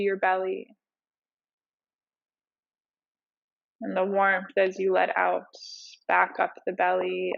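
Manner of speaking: unhurried meditation teacher, leaving space between cues; guided meditation. Acted. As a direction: ease them into breath awareness, phrase by phrase.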